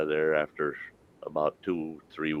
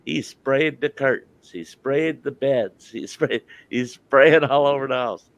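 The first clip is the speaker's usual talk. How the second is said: mock angry wife; 6 semitones higher than usual. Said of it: "his wife's mad".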